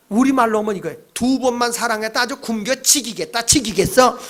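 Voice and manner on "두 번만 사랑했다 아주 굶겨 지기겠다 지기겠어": mildly acted sarcastic complaint; disgruntled grumble. Israelites complaining about God's love, disgruntled. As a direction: grumble back with a touch of sarcasm. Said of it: "막 불만으로 나와 있는 게".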